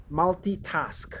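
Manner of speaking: "multitask" said slowly, every consonant clear; slow, deliberate "multitask"; careful enunciation. Shown as a demonstration. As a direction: spell out "multitask" sound by sound, slowly. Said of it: "enunciate the N consonant sounds".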